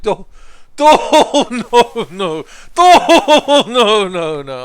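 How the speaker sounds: high, loud, dim-witted refusal; dopey shy NPC voice. Pretend. Streamer voicing a shy game companion refusing to help, dopey high voice. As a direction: play a bashful simpleton saying no. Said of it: "He's like".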